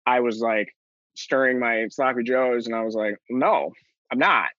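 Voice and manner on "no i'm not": a firm, sure no; confident denial. Retold or imitated. Answering his mother's question, lightly confident. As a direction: state it flatly, no doubt about it. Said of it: "very confidently".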